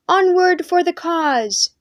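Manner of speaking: loud, high, slow rallying shout; shouted battle cry. Acted. Knights shouting to impress the commander, loud. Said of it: "They shouted".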